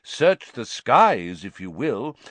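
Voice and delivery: slow, understated amusement; amused. Acted. Dumbledore humouring the executioner, lightly amused. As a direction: draw it out with mild amusement. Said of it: "still sounding amused".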